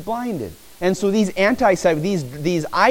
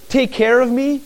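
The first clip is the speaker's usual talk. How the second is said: pleading; 7 semitones higher, 4 dB louder than usual. Shown as a demonstration. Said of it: "What are they saying?".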